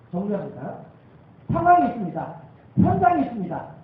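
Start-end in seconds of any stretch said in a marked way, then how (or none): 1.5-3.7 higher, louder, building sermon cry; full-force preaching. Acted. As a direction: drive the point home to the pews.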